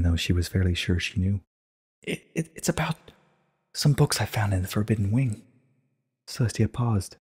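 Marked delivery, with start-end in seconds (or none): 2.0-5.4 nervous stammer. Acted. Nervous stammer after running.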